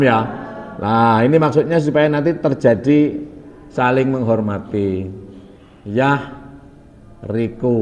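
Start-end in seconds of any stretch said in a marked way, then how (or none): 5.9-7.7 yahriku drawn out very slowly, each syllable separate; teacher spelling out yahriku slowly. Shown as a demonstration. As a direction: stretch out yahriku slowly for the class. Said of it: "pelan-pelan ya".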